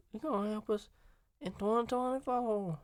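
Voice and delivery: practicing Harris's Southern "twenty twenty-four"; Southern accent attempt. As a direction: stretch it into a Southern twang. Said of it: "I don't even think I can hit that that hard".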